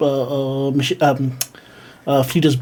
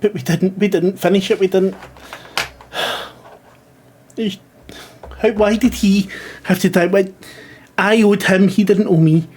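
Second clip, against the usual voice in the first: grieving father; 5 semitones higher than usual. Acted. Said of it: "he's just crying".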